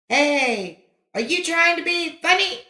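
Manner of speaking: high angry snap thrown back; echo. A narrator's reading. Echo returning the angry snap, distant. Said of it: "came back from across the valley".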